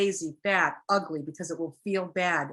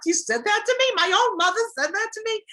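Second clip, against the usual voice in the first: put-on a much higher, louder voice of a stunned grown child; hurt grown child; 6 dB louder than usual. The hurt kid reacting, voiced.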